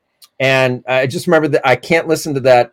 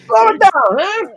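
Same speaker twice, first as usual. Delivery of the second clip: very high-pitched mock-Italian scolding; hammed-up Italian teacher; Italian accent. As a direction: play an Italian driving instructor telling off a pupil. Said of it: "doing an Italian accent".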